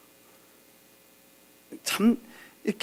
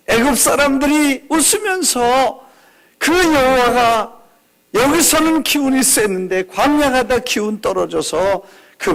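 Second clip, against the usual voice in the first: fervent plea; 4 semitones higher than usual. Pretend. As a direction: press God hard, rising. Moses' prayer voiced again.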